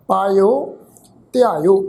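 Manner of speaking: ਪਾਇਓ, ਧਿਆਇਓ with yayya softened to i plus o; vowel glide. Shown as a demonstration. Teacher sums up the rule, ਪਾਇਓ, ਧਿਆਇਓ with i-o glide. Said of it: "ਇਸ ਢੰਗ ਦੇ ਨਾਲ ਪਾਠ ਉਚਾਰਨ ਹੋਏਗਾ".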